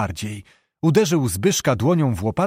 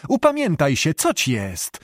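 calling out; 3 semitones higher than usual. Acted. Maćko to his nephew Zbyszko, calling out urgently. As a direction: call out to calm the nephew. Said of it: "zawołał".

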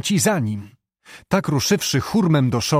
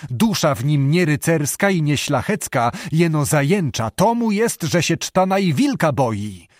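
shouting scorn; 3 semitones higher than usual. Acted. Abbot shouting contempt at Zbyszko. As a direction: scold him as a coward. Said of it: "począł krzyczeć".

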